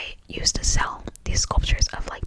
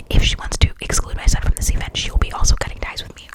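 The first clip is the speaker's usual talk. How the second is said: louder, emphatic whisper; amazed rereading; 7 dB louder than usual. Real, not acted. Rereading the mother's threat to viewers, amazed. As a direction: reread it forcefully in a stage whisper.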